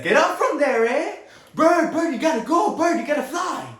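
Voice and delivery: put-on high, loud boy urging a bird; urgent shouting. Son telling a pigeon to fly, high urgent shout.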